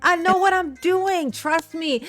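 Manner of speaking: mock sweet talk. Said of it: "Later telling them to".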